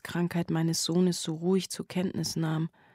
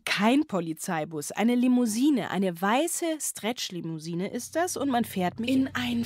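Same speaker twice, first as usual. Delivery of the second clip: fresh take; 2 semitones higher than usual. Acted. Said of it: "Und bitte?".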